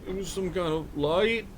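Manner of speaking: put-on high, halting whimper of a bewildered boy; acted distraught confusion; sobbing, breaking down. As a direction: stammer it out tearfully. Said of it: "he's fucking just sobbing and just, like, breaking down".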